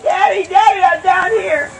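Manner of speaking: put-on high child's voice calling up from the ditch; little girl calling. Girl answering her father from the muddy ditch, high small voice. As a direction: call out small and high, relieved to be found. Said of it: "She said".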